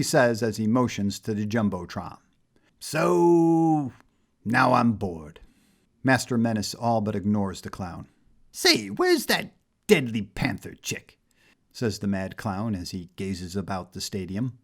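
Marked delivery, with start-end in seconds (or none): 2.8-5.4 slow, sulky clown voice. A narrator's reading. The mad clown tells Menace about security, bored drawl. 8.5-11.2 slow, sulky clown voice. A narrator's reading. The mad clown tells Menace about security, bored drawl.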